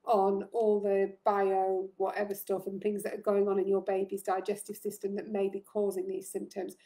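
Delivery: breathless, pausing for air between phrases; short of breath. Real, not acted. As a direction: talk while out of breath. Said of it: "Excuse me, I'm really short of breath".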